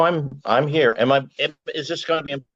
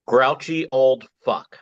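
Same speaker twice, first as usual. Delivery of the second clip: slow, deliberate superhero name reveal; announcing a name; 2 semitones higher, slower than usual. Acted. Poet unveils his superhero name, slow announcement. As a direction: present the name with weight, drawing it out. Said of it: "First, the name".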